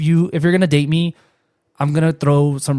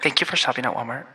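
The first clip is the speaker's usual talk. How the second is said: store announcer voice; 6 dB quieter than usual. Pretend. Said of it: "announcer voice".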